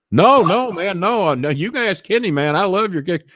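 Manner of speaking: high, frantic denial; hammed-up terrified pleading; panicked denial. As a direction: squeak out the excuses. Tim feigning terror about kicks.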